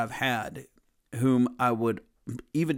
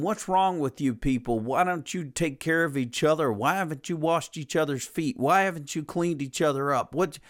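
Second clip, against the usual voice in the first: higher, rising mock tirade at the disciples; mock screaming rant; 6 semitones higher than usual. Preacher imitating a scolding leader yelling at disciples, mock rant. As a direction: rant at them in a hammed-up scold. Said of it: "go screaming at his disciples saying".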